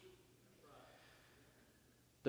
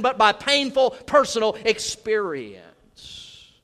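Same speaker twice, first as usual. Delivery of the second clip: loud, raised pulpit delivery; preaching at full force; 7 semitones higher, 8 dB louder than usual. Acted. Preacher warning of a roaring lion, loud preaching. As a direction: drive home the warning about Satan.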